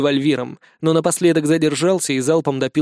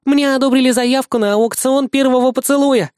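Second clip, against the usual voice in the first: proud; 9 semitones higher, 4 dB louder than usual. Acted. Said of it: "гордо выдала она".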